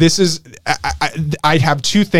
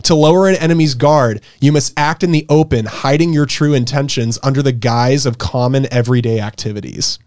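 reading aloud; 5 semitones lower than usual. Shown as a demonstration. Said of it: "The first strategy states".

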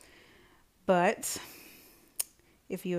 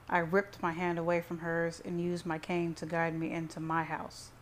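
ordinary delivery

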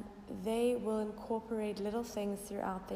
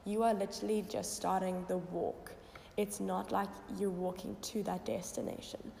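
croaky voice. Real, not acted. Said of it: "my little bit of a croaky voice this morning".

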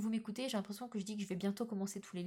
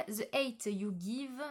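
French-accented English title; slower than usual. Shown as a demonstration. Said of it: "Désolée pour mon accent".

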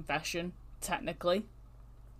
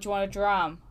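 put-on Scottish accent; 4 dB louder than usual. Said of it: "he was Scottish as well".

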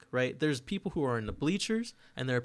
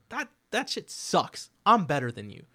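mock trash talk; 5 semitones higher, 6 dB louder than usual. Host mocking rivals' podcasts, sneering cocky high voice. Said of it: "I'm like".

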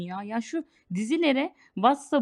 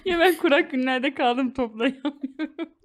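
breaking character giggling; 3 semitones higher, slower than usual. Real, not acted. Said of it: "Şu an ciddi duramıyorum".

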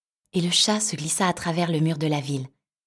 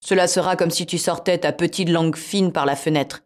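cat voice; 5 dB louder than usual. Acted.

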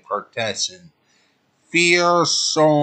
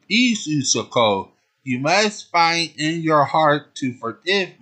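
lightly voiced pleading lover; a hint of begging for forgiveness; 3 semitones higher than usual. Tuxedo Common begs Sailor Moon to forgive him, mildly pleading. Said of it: "It was almost like he was begging".

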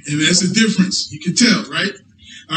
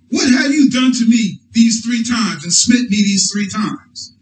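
slow, raised mock donkey complaint; 3 semitones higher than usual. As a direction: voice the hurt donkey, calling out. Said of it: "Now this is a donkey talking".

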